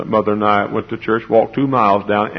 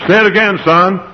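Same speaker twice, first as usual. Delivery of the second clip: mother urging; 10 semitones higher, 7 dB louder than usual. Retold or imitated. Mother urging her little son.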